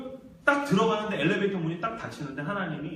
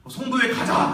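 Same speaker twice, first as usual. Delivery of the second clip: louder, higher rallying call; mock battle cry of a waking beast; roused inner lion; 5 semitones higher, 6 dB louder than usual. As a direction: rouse yourself to go and attack. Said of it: "잠자던 사자가 어흥 하면서 일어나는".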